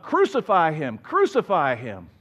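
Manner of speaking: half-shouted Crucify him twice over; mob yelling. Retold or imitated. Preacher voices the angry crowd demanding crucifixion, mock yell. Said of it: "they yell out".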